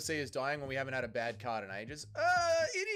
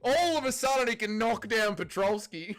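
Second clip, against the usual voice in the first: laughing; 7 semitones higher, 6 dB louder than usual. Real, not acted. Laughing disbelief at the upset.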